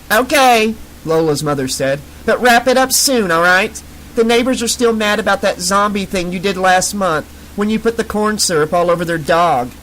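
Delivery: high-pitched, breathy mom calling through a door; mother calling. Acted. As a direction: call out like a mother from outside. Mother's voice continues.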